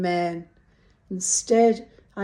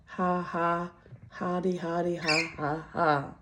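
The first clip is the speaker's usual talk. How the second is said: sarcastic fake laugh; 2 semitones lower, 5 dB quieter than usual. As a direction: laugh it off bitterly. Mock laugh after bitter joke.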